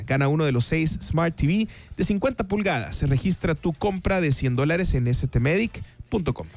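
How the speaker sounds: polished radio ad read, phrase by phrase; sponsor ad read. Acted. Radio host plugging sponsors to listeners, announcer ad read.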